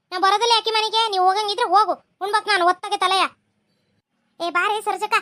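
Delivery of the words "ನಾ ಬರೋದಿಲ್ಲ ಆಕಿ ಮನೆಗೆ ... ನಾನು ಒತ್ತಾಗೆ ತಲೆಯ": louder, sharp refusal; angry refusal. Acted. Woman refusing to visit the neighbour she quarrelled with, angry and loud. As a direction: slam the door on the idea.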